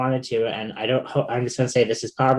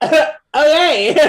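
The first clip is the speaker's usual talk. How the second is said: much higher, louder okay through a laugh; 12 semitones higher, 8 dB louder than usual. Retold or imitated. Retelling a bully's threat, laughing okay. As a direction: laugh it off in disbelief.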